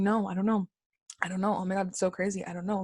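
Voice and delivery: lightly mocking ditzy airhead; dumb airhead voice. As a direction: play a clueless airhead, softly. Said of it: "in that dumb airhead voice".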